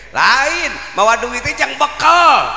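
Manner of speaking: loud, high shout landing on "bekal"; sharp correction. Real, not acted. Preacher correcting why money is carried, loud shout. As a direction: snap the crowd out of their mistake.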